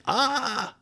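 high startled yelp; mock yelp. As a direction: imitate his shocked gasp. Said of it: "he goes".

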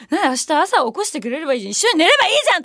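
最後は高く大きく声を張ってまくし立てる; 送ってくれない男に食ってかかる真似; 怒って駄々をこねる. Retold or imitated. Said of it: "めっちゃ怒ってんのよ". (終電で男に怒ってすがる女の子、声を張って)

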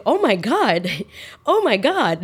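high, swooping mock-panicked exclamation; half-laughing retold alarm. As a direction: replay your panic, pitch jumping up. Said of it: "Now I'm panicking".

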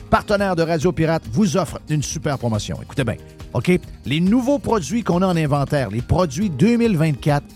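upbeat sponsor read. Acted. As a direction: pitch it like a radio spot. Reads sponsor ad.

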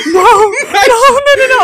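laughing, high-pitched cringe; cringing. Real, not acted. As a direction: squirm with secondhand embarrassment. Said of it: "I'm getting secondhand embarrassment for you".

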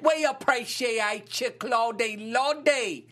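high, slow, hammed-up English accent; bad English accent. Host thanking Claudie from the UK, mock English accent. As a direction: stretch it out in terribly fake English. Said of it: "my best version of an English accent".

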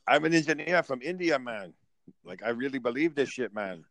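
lightly mocked Indian accent. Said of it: "he uses that racist accent".

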